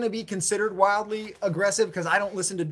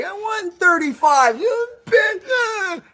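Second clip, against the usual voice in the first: rude carny guesser; 13 semitones higher, 7 dB louder, much slower than usual. Pretend. Mock carny weight guesser.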